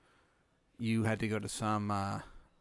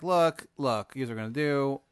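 calm the abducted human, a bit louder; alien Tony; 3 semitones higher, 4 dB louder than usual. Acted. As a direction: alien doctor reassuring the human patient. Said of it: "he's like".

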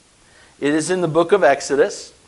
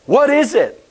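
higher, louder puzzled asking; puzzled question; 7 semitones higher, 4 dB louder than usual. Shown as a demonstration. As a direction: ask it like you've never seen it. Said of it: "which literally in Hebrew means".

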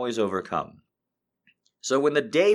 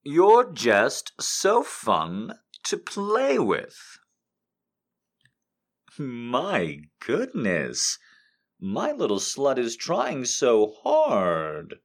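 teasing lover; 4 semitones higher, much slower than usual. Acted. Reads smutty quotes aloud.

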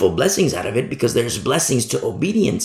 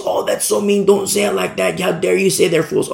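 hammed-up indignation, pitched higher; mock offended listener; 5 semitones higher than usual. Imagined listener telling the preacher not to say fools, mock-offended. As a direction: mimic someone aghast at the rudeness.

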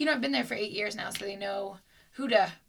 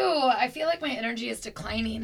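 whisper. Real, not acted. Tired, low energy.

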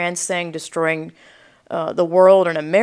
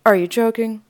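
imitating an incredulous neighbour, pitched up; earnest, higher-pitched disbelief; dead serious; 4 semitones higher than usual. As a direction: ask it as if you truly can't believe it. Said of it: "The way she said it".

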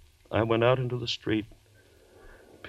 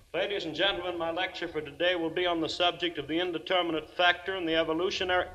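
higher, formal address; formal lecture; 7 semitones higher, 4 dB quieter, faster than usual. Acted. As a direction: open the class stiffly. Professor begins lecture formally.

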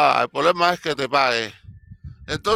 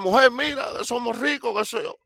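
higher, thrilled call to his wife; husband to wife, excited and higher; excited news; 6 semitones higher than usual. Retold or imitated. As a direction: tell her you're rich. Man tells wife they're rich.

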